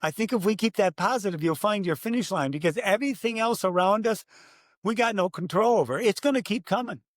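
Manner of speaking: rally the crowd like a preaching dad. Retold or imitated. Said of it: "a dad preaching".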